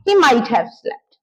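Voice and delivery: slow, each word spaced; slow model sentence. Shown as a demonstration. Teacher slowly modelling the might-have guess. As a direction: dictate it slowly. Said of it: "क्या पता सो गया हो".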